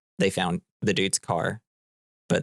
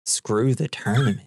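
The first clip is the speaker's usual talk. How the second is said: lightly acted echo in near-usual pitch; retold echo. Walter repeating the dude's words back, understated mock echo. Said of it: "Walter's like".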